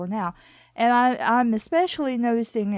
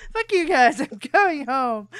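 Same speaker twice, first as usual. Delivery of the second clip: put-on sass it like a kid storming off; bratty cartoon kid; 3 semitones higher, 5 dB louder than usual. Riffing on a redub of the cartoon boy, loud and bratty. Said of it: "eleven-year-old boy in the nineties on T V going".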